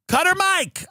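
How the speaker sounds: high, sharp yell to cut the mic; yelled order. Retold or imitated. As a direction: bark it at the sound guy. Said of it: "I would yell".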